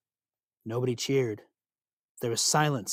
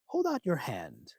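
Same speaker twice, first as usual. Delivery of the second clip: falsely friendly; 5 dB quieter, slower than usual. Acted. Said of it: "Loki sounded so helpful, so friendly".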